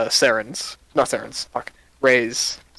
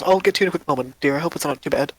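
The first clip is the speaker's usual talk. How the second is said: lightly voiced cheerful shopkeeper, a bit faster at the end; friendly shopkeeper; 3 semitones higher, faster than usual. Shopkeeper greeting two adventurers, lightly voiced and friendly. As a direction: greet new customers brightly.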